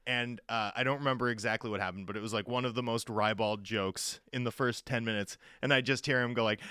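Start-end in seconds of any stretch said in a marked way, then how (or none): none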